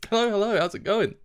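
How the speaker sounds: high, lilting hello; cheery greeting. Real, not acted. Streamer greeting viewers joining the stream, cheery. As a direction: greet them in a lifted voice.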